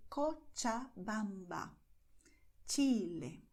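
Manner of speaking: "Cochabamba" and "Chile" with ch as in match; Spanish CH. Shown as a demonstration. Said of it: "the sound of ch".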